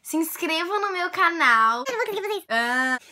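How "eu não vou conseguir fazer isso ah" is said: squirm at the sales pitch; embarrassed giggly. Real, not acted. Vlogger embarrassed to ask for subscriptions. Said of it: "embarrassed at channel plea".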